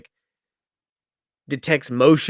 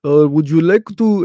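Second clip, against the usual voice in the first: imitated agent; 4 semitones higher, 8 dB louder than usual. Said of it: "He was like".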